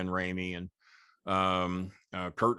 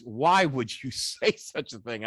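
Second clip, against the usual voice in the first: imitating Lawler; 3 dB louder, slower than usual. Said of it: "Lawler says".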